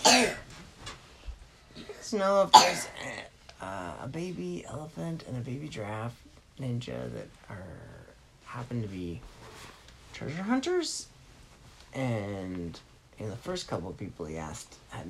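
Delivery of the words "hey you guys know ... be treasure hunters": put-on much higher, eager boy asking around; high-pitched kid asking politely; little boy voice. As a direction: play the small boy asking strangers for help. Boy asks people for ninjas.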